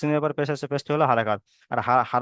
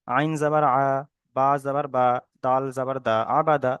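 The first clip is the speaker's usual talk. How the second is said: spelling recitation. Shown as a demonstration. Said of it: "যে প্রথম বানান করবেন".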